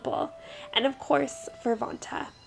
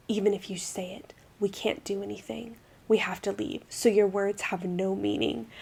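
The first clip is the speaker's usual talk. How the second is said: lower, soft rejecting butler; 4 semitones lower, 5 dB quieter than usual. Acted. Voicing the butler turning her down, low and soft. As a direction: let him down gently, low.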